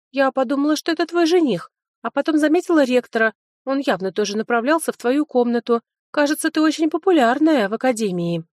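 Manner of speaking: a lively redhead spilling news; chatty girlfriend. Acted.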